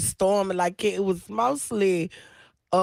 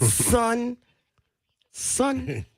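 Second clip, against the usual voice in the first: mock Bronx slang; 4 semitones higher than usual. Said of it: "be saying".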